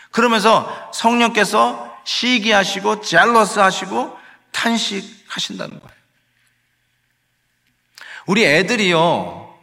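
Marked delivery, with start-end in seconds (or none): none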